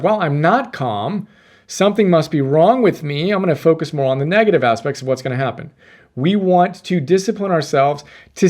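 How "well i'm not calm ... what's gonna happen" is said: anxious inner voice. Retold or imitated. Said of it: "you become more aware of".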